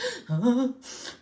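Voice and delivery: big pre-sneeze gasp; huffing before a sneeze. A narrator's reading. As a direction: suck in air as a sneeze builds. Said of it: "so I huffed".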